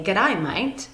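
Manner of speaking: Australian-accented greeting. Shown as a demonstration. Teacher greeting a friend in Australian English, Australian accent. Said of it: "hear the Australian accent".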